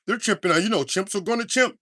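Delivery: a hint of a gossiping online woman, mock tone; mocking white women. Vlogger mimics white women online, mild mocking voice. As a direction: lightly voice a scandalized internet poster. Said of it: "lame ass white women on the internet chimping".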